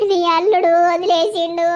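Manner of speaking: choked, grieving complaint to her mother; tearful lament. Acted. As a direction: hold back tears as you say it. Daughter weeping to mother.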